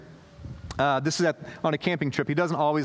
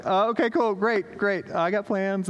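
higher, bright fake-casual reply; awkward brush-off; 3 semitones higher than usual. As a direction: cover the surprise with quick cheer.

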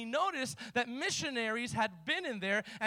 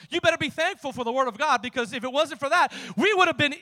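rising into a loud preaching shout; chief's warning; 2 semitones higher, 8 dB louder than usual. Retold or imitated. Preacher voicing the chief to the professor, building to a shout. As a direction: build it louder line by line. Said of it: "He goes".

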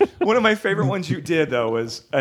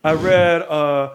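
put-on awkward kid; much slower than usual. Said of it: "he just goes".

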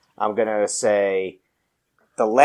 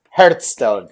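mock Scottish accent; 2 semitones lower, 5 dB louder than usual. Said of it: "do your best Scottish accent".

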